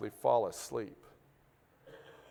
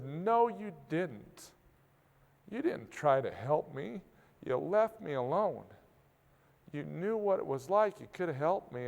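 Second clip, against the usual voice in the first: retold wife's accusation; 4 semitones higher than usual.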